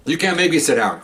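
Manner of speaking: high, mock indignant woman's voice; imitating indignant woman. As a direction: pitch it up like her protest. Woman refusing to sit.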